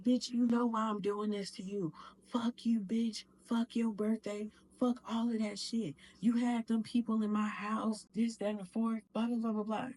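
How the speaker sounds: put-on retelling the boyfriend cursing her out; angry rant. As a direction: spit it out like a furious abuser. Abuser's rant voiced in story.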